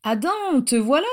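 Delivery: high, lifted welcome; affectionate, high-pitched exclamation; tender greeting. A narrator's reading. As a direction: greet a dear friend fondly, pitched well up. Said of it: "dit Eleanor avec tendresse".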